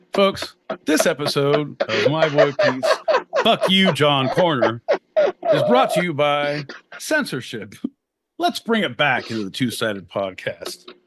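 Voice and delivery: emphatic podcast announcer; mock sponsor read. Podcast episode brought to you by censorship, mock sponsor read. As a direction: deliver a mock sponsorship plug with punch.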